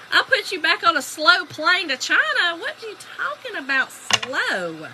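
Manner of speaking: high, playful threat; mock-indignant. Wife threatens to send husband off, mock-indignant. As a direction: threaten him in hammed-up outrage. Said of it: "Ooh, I was mad".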